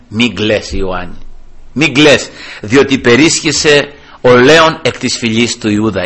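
low-pitched comforting words; gentle reassurance. Acted. Elder comforts weeping John, gently reassuring.

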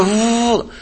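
drawn-out whoosh of wind; imitated rushing wind. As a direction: make the sound of a gust.

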